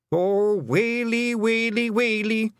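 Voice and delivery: high, slow mock lament; wailing. The Feegle chief lamenting the Queen has come. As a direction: wail it like a hammed-up mourner. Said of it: "the wails and groans".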